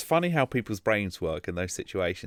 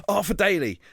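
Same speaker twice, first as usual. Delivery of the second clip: shouted outburst; 10 semitones higher, 4 dB louder than usual. Retold or imitated. Podcaster retelling a Tourette's outburst in a room, shouted out. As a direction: imitate a sudden high shout. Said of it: "one of them just shouts out".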